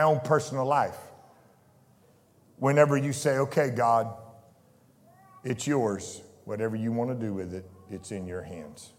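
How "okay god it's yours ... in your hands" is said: softer, lower surrendered prayer. Retold or imitated. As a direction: give it all to God gently.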